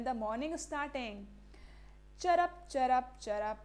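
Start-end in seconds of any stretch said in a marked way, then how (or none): 2.2-3.6 sparrow chirp. Retold or imitated. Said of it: "say the sparrows".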